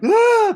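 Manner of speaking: loud, high mock wail; exaggerated bawling. Shown as a demonstration. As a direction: bawl out a hammed-up "Ah". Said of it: "I started just sobbing. I mean, not like".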